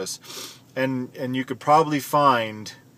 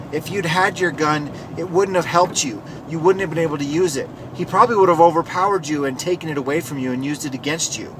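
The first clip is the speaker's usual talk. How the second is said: higher mock-lecturing voice; imitated Democratic senator; 4 semitones higher than usual. Senator tells victim a gun was useless, mockingly imitated. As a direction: mimic a senator talking down to a victim. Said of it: "And then she says".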